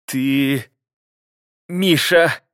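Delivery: high, rising outraged woman's cry; wife feigns outrage at her husband; indignant wife. A narrator's reading. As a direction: play the wronged innocent. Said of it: "изображая из себя невинную".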